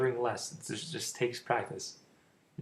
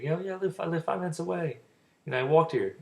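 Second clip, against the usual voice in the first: lightly voiced other person, pitched higher; imitated chatty reply; 5 semitones higher than usual. Diner telling a stranger where they live, lightly imitated. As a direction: act out a casual answer in a higher voice. Voices her answer in sample chat.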